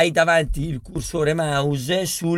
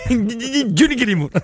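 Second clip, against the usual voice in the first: lightly hammed-up comic character voice, higher pitched; imitazione di Johnny Glamour; 4 semitones higher than usual. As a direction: imitate the character through a laugh. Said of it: "Ti viene bene". (imitazione comica, acuta, ridendo)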